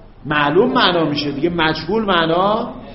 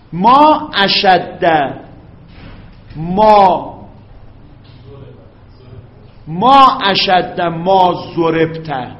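very slow, each word drawn out; slow dictation; 4 dB louder, much slower than usual. Shown as a demonstration. Teacher dictating to students, very slow and clear. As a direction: dictate it slowly for the students to copy. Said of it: "درست شد؟".

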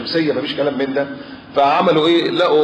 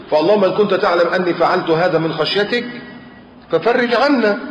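rising plea; 3 semitones higher than usual. Acted. Father's prayer for rescue retold.

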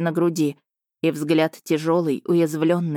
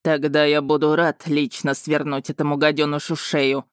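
lightly lowered, menacing dragon voice; murderous tone; 2 semitones lower than usual. Acted. Jealous dragon threatening his rival, murderous tone. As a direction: promise the killing coldly. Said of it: "с убийственной интонацией произнёс Рейн".

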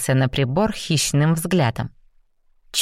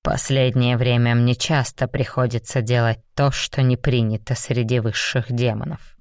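lower, restrained demon; a lightly lowered stern demon; 4 semitones lower than usual. Acted. Raum's line. (сдержанный низкий голос демона)

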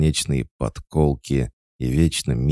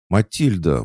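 sharp higher indignant cry of the name; indignant call; 8 semitones higher, 5 dB louder than usual. A narrator's reading. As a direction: scold her by name, outraged. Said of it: "возмутилась Пуся". (возмущённо, окликая по имени)

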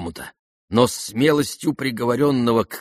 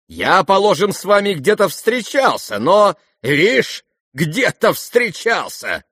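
loud and high, building to a shout; growing heated; 7 semitones higher, 6 dB louder than usual. Acted. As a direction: work yourself up like a drunk. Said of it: "Разгорячался и как бы хмелел всё более".

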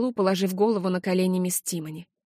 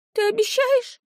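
put-on hopeful child. A narrator's reading. Tearful child asking for promise.

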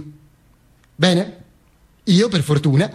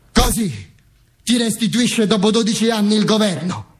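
a touch of indignation, pitched up; lightly voiced wife; 4 semitones higher than usual. Widow protesting at how the government returns him, lightly voiced indignation. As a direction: voice the wife, slightly raised and high. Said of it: "mi disse mia moglie".

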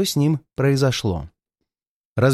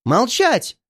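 high-pitched angry command; furious cry; 9 semitones higher than usual. A narrator's reading. Murderess silences her accuser, crying out in fury. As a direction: cut him off with an enraged cry. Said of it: "крикнула она, вне себя от ярости".

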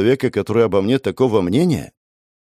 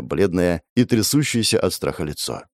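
plain reading voice

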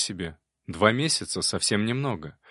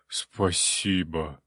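low, slow, drawn-out thanks; grateful demon; 5 semitones lower, much slower than usual. A narrator's reading. Water demon thanking the hero for brandy, grateful. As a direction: sigh out the thanks, deep and slow. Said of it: "благодарно отозвался Ксантип".

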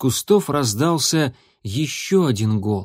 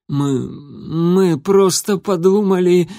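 trembling voice; 6 semitones higher, 3 dB louder, slower than usual. Acted. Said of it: "дрожащим голосом начал Крутобок".

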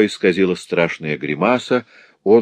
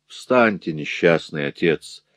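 with pity; 2 semitones lower, slower than usual. Acted. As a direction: speak gently out of pity. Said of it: "с жалостью проговорил Рудольф".

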